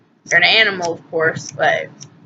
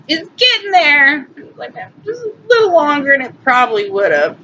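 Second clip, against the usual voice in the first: getting teary; 7 semitones higher than usual. Real, not acted. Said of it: "I'm getting all little teary-eyed here".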